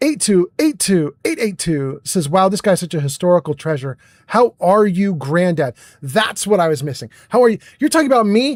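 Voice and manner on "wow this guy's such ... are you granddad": ordinary talk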